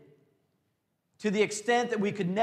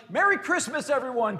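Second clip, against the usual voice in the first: higher, laughing Merry Christmas; joyful Scrooge; 6 semitones higher, 5 dB louder than usual. Retold or imitated. Forgiven servant roaming town like Scrooge, joyful shout. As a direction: call it out like a reformed Scrooge. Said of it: "like an Ebenezer Scrooge type of experience".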